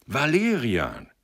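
high, slow proclamation; triumphant announcement. A narrator's reading. Sender revealing the election winner, triumphantly.

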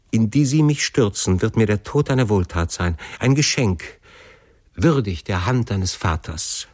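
understated despair, pitch lifting on key phrases; a touch of anguished entreaty; desperate plea. Acted. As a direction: plead as a desperate son, slowing at the close. Son begs father to end his life.

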